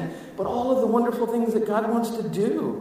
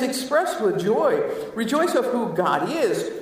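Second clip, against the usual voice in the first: excited rejoice; 4 semitones higher than usual. Shown as a demonstration. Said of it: "This word is the go crazy word".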